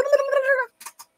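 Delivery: mock gabble shooting upward in pitch; imitating rapid-fire speech. Teacher mimics someone who speeds away in English, mock gabble. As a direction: race off into high-pitched nonsense babble. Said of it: "engata uma quinta".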